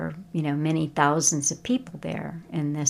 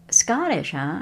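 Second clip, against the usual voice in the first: surprised. Retold or imitated. Local man to a visitor, intrigued by Scotland, surprised. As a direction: catch on the word with sudden interest. Man reacts to Scottish husband.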